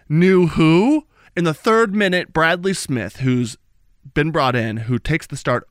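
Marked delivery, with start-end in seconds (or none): 0.1-1.1 mock exclaim. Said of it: "I'm gonna say".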